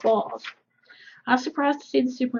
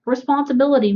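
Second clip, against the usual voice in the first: a bit louder, pushed out to the crowd; Responsibility, said louder and firmer; 3 semitones higher, 4 dB louder than usual. Acted. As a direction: raise it so the hecklers hear.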